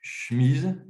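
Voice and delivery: "chemise" drawn out as "chmiiz"; slow "chemise" without the first e; regional variant, encoded. Shown as a demonstration. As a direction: stretch "chemise" into one long syllable, "chmiz". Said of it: "Si j'encode chemise".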